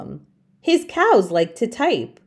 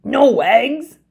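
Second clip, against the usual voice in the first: mild disbelieving cry; a touch of shock; lightly cried question; 4 semitones higher, 4 dB louder than usual. Acted. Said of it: "cried Farmer Brown".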